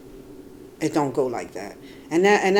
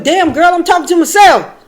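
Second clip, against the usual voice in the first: exasperated retort; 9 semitones higher, 6 dB louder than usual. Retold or imitated. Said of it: "I kept saying".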